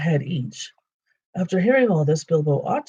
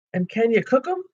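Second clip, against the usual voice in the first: troll voice; 8 semitones higher than usual. Acted. Troll Tom asks.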